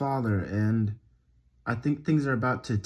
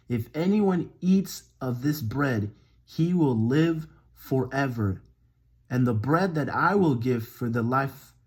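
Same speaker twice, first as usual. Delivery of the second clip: deliberate, emphatic verse reading; scripture reading. Acted. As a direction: read it out, weighting each phrase. Reads scripture aloud.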